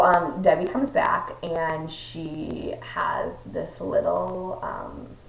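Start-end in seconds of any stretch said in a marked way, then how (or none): 1.4-5.2 real tears welling up; about to cry. Real, not acted. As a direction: voice catching, slowing down. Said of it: "I don't know why I'm about to cry".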